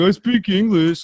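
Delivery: prickly, oversensitive tone. Retelling a movie character's reply, imitating someone touchy. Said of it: "this dude gets all sensitive".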